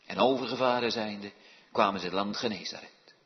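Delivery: measured solemn reading of the Bible; scripture reading. Acted. Minister reading Matthew to the congregation, solemn reading. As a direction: read the passage with gravity.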